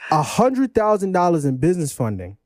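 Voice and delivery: slow, measured emphasis; slow repeat. Shown as a demonstration. Host repeats the spicy claim for listeners, slowly. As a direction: say it slowly so it lands. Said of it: "I'm gonna say it slow".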